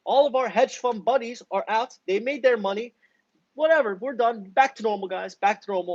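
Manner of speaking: high, smug mock announcement; sarcastic high voice of the broker; mocking Robinhood. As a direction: parody the broker as a casual sellout. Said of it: "Robinhood said".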